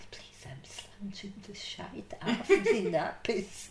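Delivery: imitated Glasgow twang, breaking into laughter. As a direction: copy the nurse's Glaswegian way of talking. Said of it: "the way she said it".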